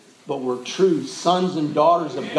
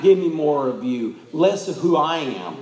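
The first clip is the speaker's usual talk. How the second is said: low, subdued prayerful plea; understated crying out; 4 semitones lower than usual. Acted. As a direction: pray it gently, a restrained appeal. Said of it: "crying out to him".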